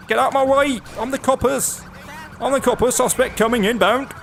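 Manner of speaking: mock copper shouting. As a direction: bellow at the traffic like a pompous policeman. Plays the bellowing copper.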